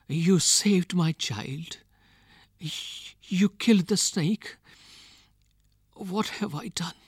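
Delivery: high-pitched lament fading toward a whisper; anguished cry. A narrator's reading. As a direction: lament high and halting, sinking to near-whisper. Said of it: "she cried".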